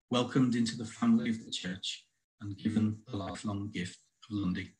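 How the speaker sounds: measured poem recital with deliberate pauses; poetry reading. Acted. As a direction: read it as verse, line by line. Reads own poem aloud.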